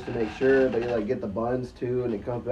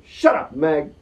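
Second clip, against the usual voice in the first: loud, raised shout down the line; mock heckling yell; 4 semitones higher, 9 dB louder, slower than usual. Caller heckles actress at home, loud mock shout. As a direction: bellow it as a prank caller. Prank caller yells down the phone.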